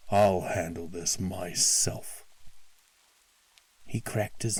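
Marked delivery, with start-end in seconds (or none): 0.1-2.3 slow grim threat; angry. Acted. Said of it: "he ordered".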